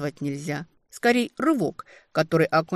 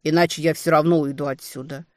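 angry; 4 dB louder than usual. Acted. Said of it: "зло отозвался демон".

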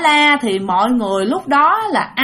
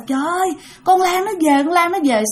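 terrified cry; 5 semitones higher than usual. Retold or imitated. Terrified mother-in-law cries out.

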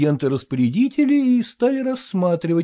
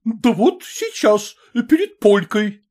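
higher, slow, curt; curt answer; 7 semitones higher, 3 dB louder, slower than usual. A narrator's reading. Mother answers Maternitskaya curtly. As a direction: snap back the answer.

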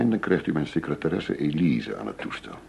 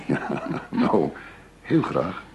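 a yes through a short laugh; much slower than usual. Acted. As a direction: laugh it out, amused. Laughing at candlelit dinner idea. (lachend ja)

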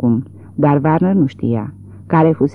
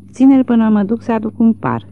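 higher cry, out of breath; breathless shriek; 7 semitones higher than usual. A narrator's reading. Mrs. Warner shrieking at her husband, out of breath. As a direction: yell it while still panting. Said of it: "țipă ea de-abia trăgându-și sufletul".

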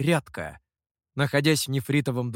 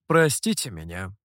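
low, gracious apology; magnanimous apology; 7 semitones lower than usual. A narrator's reading. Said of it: "великодушно извинился тёмный".

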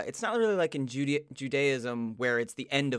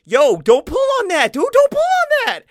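loud, high-pitched frantic warning; alarmed shout to stop him; panicking giant; 13 dB louder than usual. Acted. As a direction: yell it in mock panic, climbing higher. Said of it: "the fucking giant was like".

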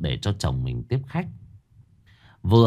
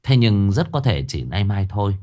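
usual speaking voice

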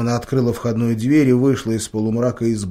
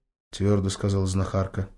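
ordinary delivery, nothing marked

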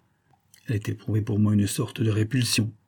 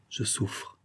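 a hushed, unvoiced je souffre; whispered; 10 dB quieter than usual. Robert confessing his suffering to his friend, whispered. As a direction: breathe je souffre out without voice. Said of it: "me dit-il à voix basse".

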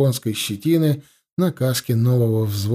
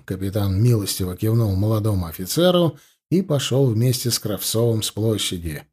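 ordinary delivery

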